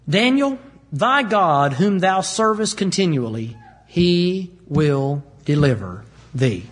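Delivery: slow, grave blessing from a king; solemn king's farewell. Acted. King sending Daniel into the den, slow and solemn. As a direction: speak it slowly, like a last word.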